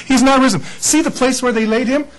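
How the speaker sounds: a touch of a herald; angel's announcement. Retold or imitated. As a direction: proclaim it to the women. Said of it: "or the angel said".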